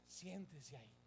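low, soft, settled delivery; quiet compliance advice. Acted. Preacher advising a member to just sit, low and submissive. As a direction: drop right down, as if simply complying. Advice to simply obey the order.

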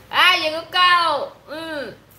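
high, loud and slow delighted cry; light up as a friend arrives; excited greeting. Real, not acted.

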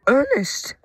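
high, sharp cry of a name; startled exclamation; exclaiming. A narrator's reading. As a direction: call out in alarm, pitch leaping up. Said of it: "exclaimed his driver".

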